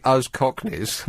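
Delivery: mock posh English accent, drawn out; send-up of an upper-class accent; cut-glass accent. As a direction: imitate a cut-glass caller slowly. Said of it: "lady with a cut glass accent like that".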